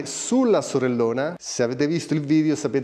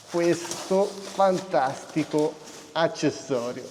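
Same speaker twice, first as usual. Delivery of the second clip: drawn-out hype; 4 semitones higher, slower than usual. Acted. Drawn-out showing off new seat.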